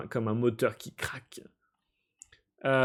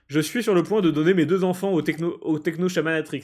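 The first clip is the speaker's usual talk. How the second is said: excited announcement; 4 semitones higher, 4 dB louder, faster than usual. Real, not acted. Player announcing to newcomer.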